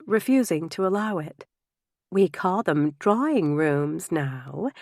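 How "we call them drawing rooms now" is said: slow, gently correcting a friend; gentle correction. Acted. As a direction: set her right kindly and slowly. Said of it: "she corrected gently".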